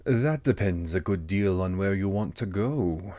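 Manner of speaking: leisurely storybook cat voice; Cheshire Cat. Acted. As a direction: answer as a teasing, unhurried cat. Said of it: "said the cat".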